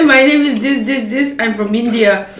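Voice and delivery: loud, laughing demo of the proper line; correct introduction. Shown as a demonstration. Retelling the proper hostess line, laughing and loud. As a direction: show how it should have gone, laughing. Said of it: "She's supposed to say".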